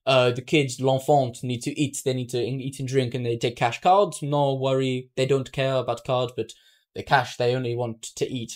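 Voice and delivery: lightly imitated French accent, halting English; hint at a Frenchman's broken English. Man returning the stolen wallet explains, lightly imitated French accent. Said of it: "in broken English, in this French English".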